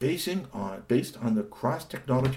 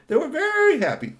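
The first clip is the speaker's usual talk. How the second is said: very high, louder happy cry; high joyful yell; happy shout; 7 dB louder than usual. Shown as a demonstration. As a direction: shout it out with glee. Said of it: "the Tall Tale family was very happy".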